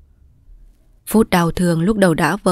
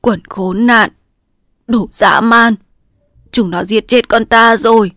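raving in a nightmare, louder; delirious curse; 4 semitones higher, 5 dB louder than usual. A narrator's reading. A wounded father raving at the soldiers in delirium. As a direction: curse the enemy half-conscious. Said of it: "nói như ở trong một cơn ác mộng".

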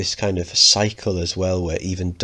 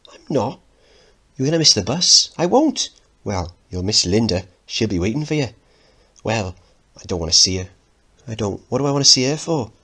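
put-on high defensive teen; 4 semitones higher, 4 dB louder than usual. Mickey denying, defensive.

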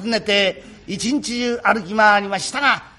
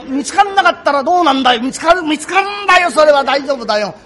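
raised, insistent back-and-forth; 勢い込んだ言い合い; 4 semitones higher, 4 dB louder than usual. Acted. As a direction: press the point with growing force. 亭主と女房の言い合い. (勢い込んで言い張る)

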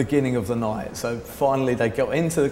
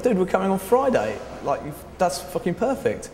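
excited; 7 semitones higher than usual. Retold or imitated. Eager reply to the club offer.

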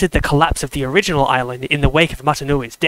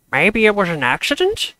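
unconvinced; 5 semitones higher than usual. A narrator's reading. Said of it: "sounding as if he didn't believe it himself".

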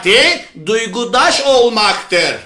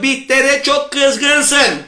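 empathetic mother; 2 semitones higher, much slower than usual. Acted. Mother's empathy line recapped.

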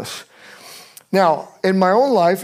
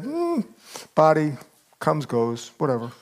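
casual shrug; 4 dB quieter than usual. Acted. God voiced as casual, dismissive.

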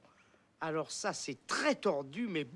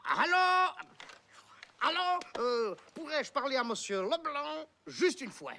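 mock Belgian accent. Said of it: "Je prends l'accent belge?".

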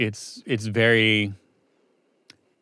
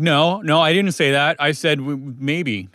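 put-on whiny kid; 4 semitones higher, slower than usual. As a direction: whine like a kid changing the rules. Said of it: "a whiny kid changing the rules".

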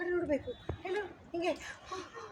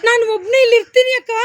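loud, projected acted line; loud demonstration for an actor; urgent call; 3 semitones higher, 7 dB louder than usual. Shown as a demonstration. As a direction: project it loudly for a child to copy. Director models line for child.

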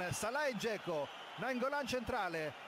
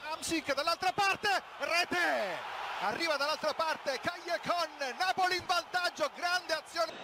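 breathless italian goal commentary; 4 dB louder than usual. Real, not acted.

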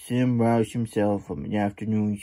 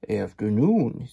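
wearily. Acted. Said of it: "Slim said wearily".

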